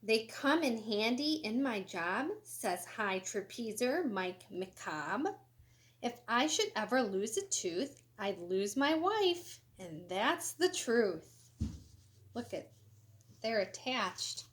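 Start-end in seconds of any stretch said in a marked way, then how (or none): 0.0-11.5 lively, sing-song storybook reading; animated picture-book read-aloud; reading to children. Acted. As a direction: read it bright and bouncy for kids. Reads trapezer's quote.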